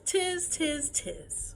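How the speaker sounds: high, mocking monkey noise; chattering monkeys. A narrator's reading. Monkeys mimicking the peddler's scolding, high and teasing.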